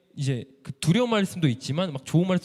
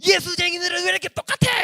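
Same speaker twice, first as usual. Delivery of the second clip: high, loud grandmother's tirade; scolding old woman; 11 semitones higher, 4 dB louder than usual. Retold or imitated. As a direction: act out an old lady railing at believers. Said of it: "그 할머니가". (높은 목소리로 호통치는 할머니)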